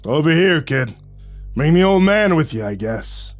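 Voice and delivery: calling out. Acted. Len summoning them to his booth, calling out. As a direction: beckon gruffly across the room. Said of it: "and called out".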